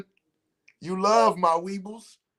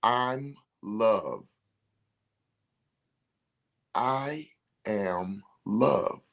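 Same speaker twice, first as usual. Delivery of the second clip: slow affirmation; 3 dB quieter, much slower than usual. Shown as a demonstration. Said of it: "Say it out loud".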